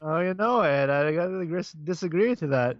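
hesitant mock Minnesotan accent. Joining the bit, objecting to Ed, Minnesotan accent. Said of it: "that's totally Minnesota".

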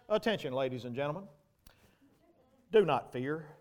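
lightly voiced captain reading a routine notice; mild calm captain. Captain speaks over intercom.

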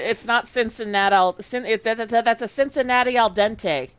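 botched attempt at a Cincinnati accent; failed Cincinnati accent. Shown as a demonstration. Podcaster joking about chili noodles, failed Cincinnati accent. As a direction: try a Cincinnati accent and miss. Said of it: "I can't do a Cincinnati accent".

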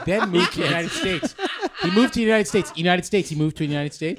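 high, emphatic, mock-lecturing; teacher-like repetition. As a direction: drill it into the class. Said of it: "do you teach like this?".

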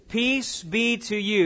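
slow, solemn blessing in a light Jesus voice; lightly voiced Jesus. Pastor giving Jesus's blessing to the frightened disciples, slow and solemn. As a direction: draw out each word like a gentle benediction. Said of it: "Look at your neighbor and say".

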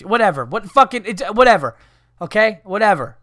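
loud fed-up whatever; exasperated outburst. Acted. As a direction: throw up your hands, loudly. Exasperated outburst about reindeer.

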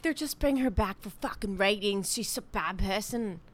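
put-on British accent. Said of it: "And they all are British".

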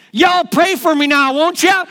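put-on high Southern child's holler; yelled Southern accent. Boy carried out of church, hollering in Southern accent. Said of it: "yelled out in a charming Southern accent".

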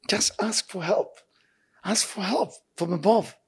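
soft slow whisper, almost secret. Acted. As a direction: breathe it slowly like a confidence. Urging listener to pray.

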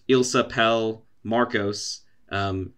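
put-on slow, clumsy anglicised French accent; bad English-speaker French. Telling a friend about a stand-up bit, mocking English-speaker French. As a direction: mangle the French like an English tourist. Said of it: "a really bad, like, how English speakers say French".

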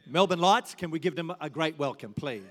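rally the room; calling out to crowd. Real, not acted. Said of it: "calling the crowd".

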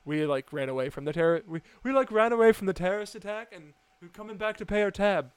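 quick, half-decent imitation of a British accent; amateur British accent retelling a bar patron's line. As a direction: toss off a passable British accent, a bit fast. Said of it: "a six out of ten accent".

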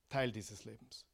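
hushed echo to let the truth land; quiet echo. Shown as a demonstration. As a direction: let "Teil dieses Lebens" sink in almost under the breath.

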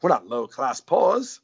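slow, haughty transatlantic with a dropped R. Acted. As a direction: draw it out in hammed-up transatlantic. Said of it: "it was mostly high society".

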